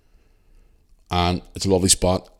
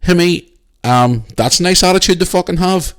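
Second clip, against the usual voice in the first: sarcastic outrage; 9 semitones higher, 5 dB louder than usual. Retold or imitated. Arguing with rude supervisor.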